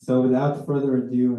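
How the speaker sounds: hoarse frog voice, worn out; a croaky, tired hoarse voice. Real, not acted. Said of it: "my frog voice needs a rest".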